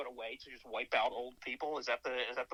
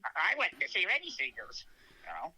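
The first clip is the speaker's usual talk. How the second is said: impression; 4 semitones higher than usual. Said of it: "that's a good impression".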